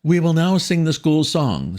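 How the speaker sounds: high, cold and loud; icy headmistress. A narrator's reading. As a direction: freeze him out with a chilly announcement. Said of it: "rising like an iceberg".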